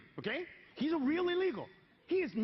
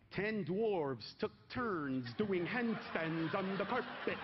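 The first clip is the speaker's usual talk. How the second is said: every syllable drawn out slowly; slow, over-careful elocution drill; slow careful enunciation; 4 semitones lower, much slower than usual. Shown as a demonstration. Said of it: "these enunciation tapes".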